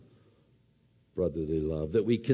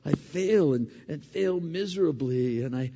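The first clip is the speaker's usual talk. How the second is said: humble prayer; 3 semitones higher than usual. Pretend. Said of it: "I come out going".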